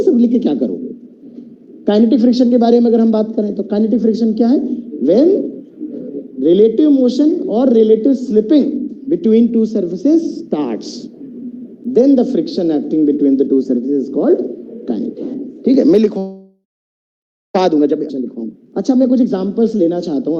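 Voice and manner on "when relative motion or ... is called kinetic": slow, measured teacher dictating a definition; drawn-out formal classroom definition; slow definition dictation. Real, not acted. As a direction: spell out the definition slowly, phrase by phrase.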